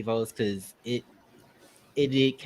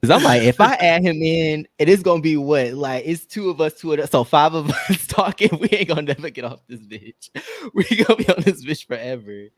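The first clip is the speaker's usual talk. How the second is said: tipsy from the wine, laughing; 3 semitones higher, 5 dB louder than usual. Real, not acted. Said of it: "this wine is hitting".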